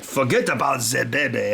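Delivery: mock French accent, Monty Python style; hammed-up comic French accent; lightly put-on French accent, Python sketch style. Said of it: "Monty Python impression of a French person".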